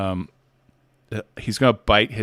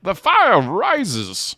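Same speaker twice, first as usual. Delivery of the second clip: very slow, drawn-out Bane cadence; Bane impression; 9 semitones higher, 4 dB louder, much slower than usual. Showing Bane's cadence, drawn out heavily. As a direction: let each word hang ominously. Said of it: "He has this cadence".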